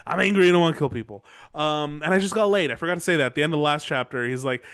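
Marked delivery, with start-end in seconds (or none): 0.1-1.2 quick, run-together mock-angry repeat. Renly insisting he wants a fight, quickly mock angry. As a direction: rattle off the mock anger in one go.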